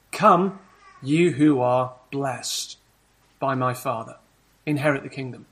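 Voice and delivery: a hint of Jesus welcoming; voicing Jesus. Preacher voices Jesus welcoming the blessed. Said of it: "he'll say to some people".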